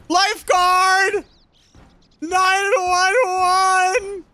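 panicked wailing. Pretend. Panicking on a boat in game.

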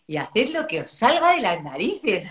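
slow, drawn-out mock outburst; half-serious exasperated dismissal; exasperated mother. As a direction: act out a mum who has given up. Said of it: "me dan ganas de decir".

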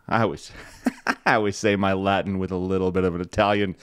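chuckling through the words; laughing. Real, not acted. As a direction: laugh at your own Latin, quick and lighter.

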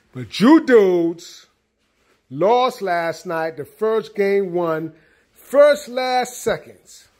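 slow, drawn-out, loud and high complaint at the team; mock scolding. Real, not acted. Fan scolding his team for losing last night, slow drawn-out complaint. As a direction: stretch every word out like you can't believe they lost.

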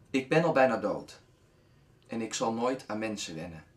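measured reading with pauses between lines; poem recitation. Acted. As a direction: recite a love poem line by line.

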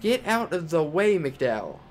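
high, loud bark at a blocker; yelling at a car. Real, not acted. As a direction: shout at the car ahead to move.

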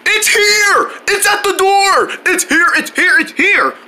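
high-pitched, thrilled cries; excited. Acted. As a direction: shout that the delivery has finally come. Long-awaited package arrives at door.

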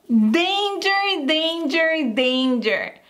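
"Danger" as a playful alarm; mock warning. Shown as a demonstration. Teacher playfully warning students of a trap. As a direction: sound the alarm, half joking.

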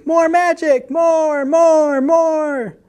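high, eager clamouring; excited repeated chant; excited cries. A narrator's reading. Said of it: "the cats cried excitedly".

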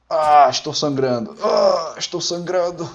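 loud groaned "Ah", then hammed-up lament; mock agony. Gamer playing a bleeding soldier, mock agony. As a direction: overact the pain of a wound.

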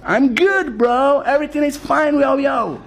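a hint of a laid-back dude; cool Joseph. Joseph answering Pharaoh, in a light laid-back dude voice. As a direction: answer like a chill American guy. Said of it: "אז יוסף עונה לו".

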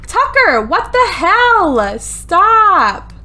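high, drawn-out exasperated yell; exasperated scolding. Real, not acted. Player scolding a misbehaving dog in the game, exasperated yelling. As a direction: holler at a naughty pet, stretching the words.

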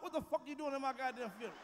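builds from fast muttering to a high, loud yell; pretend corpse yelling. Dead man yelling at a mourner, rising to a shout. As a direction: rise from the coffin and tear into them. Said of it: "I'm gonna pop up".

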